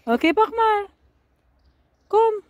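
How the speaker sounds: loud high caregiver lilt. Real, not acted. Calling the child along.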